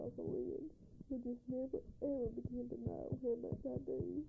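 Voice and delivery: fighting back tears as she speaks; tearful. Real, not acted. Wife tells her faraway husband she misses him, tearfully. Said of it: "I really don't know why I'm crying".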